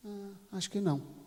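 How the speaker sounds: reluctant, considered admission; hesitant thinking. Acted. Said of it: "Ele teve que pensar".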